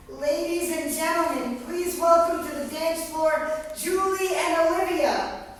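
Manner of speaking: announcer voice. Retold or imitated. Trio leader calling the couple to the dance floor, announcer style. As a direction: stretch it out like a bandleader.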